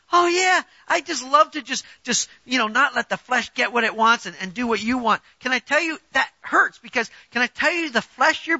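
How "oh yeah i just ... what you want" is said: mock cheerful. Preacher mocking a reluctant believer, sarcastic fake cheer. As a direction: ham up a falsely happy yes. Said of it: "not gonna be all cheerful about it".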